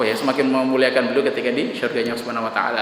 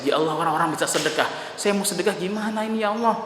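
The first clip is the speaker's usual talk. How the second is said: tearful prayer; 5 semitones higher, 5 dB quieter than usual. Retold or imitated.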